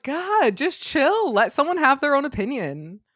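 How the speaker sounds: imitating her own fed-up reply; a hint of eye-rolling impatience; exasperated retort.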